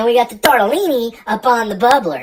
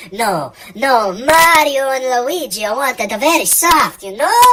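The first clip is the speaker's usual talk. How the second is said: a hint of a botched Italian accent; lightly put-on Italian accent, barely there; bad Italian accent; 4 dB louder than usual. Cook doing a bad Italian accent for Mario and Luigi. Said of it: "That was not an Italian accent".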